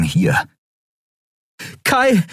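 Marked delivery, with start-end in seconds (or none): 1.8-2.2 high, sharp call of a name; urgent call. Acted. Endriel calls Kai as the ship approaches, high alarmed call.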